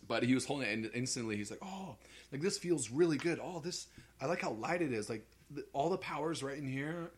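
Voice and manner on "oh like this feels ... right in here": high-pitched imitation of an Australian waiter; mock Australian waiter voice, pitched up; Australian accent. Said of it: "he had, like, an Australian accent".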